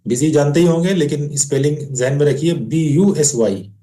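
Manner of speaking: ordinary talk, nothing marked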